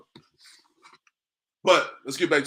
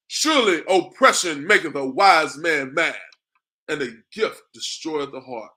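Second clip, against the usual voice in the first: scripture reading; 4 dB louder, slower than usual. Acted.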